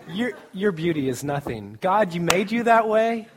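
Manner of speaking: emphatic mock preaching. Brother striking the gospel to a girl, loud emphatic imitation. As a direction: build to a forceful punch on "God".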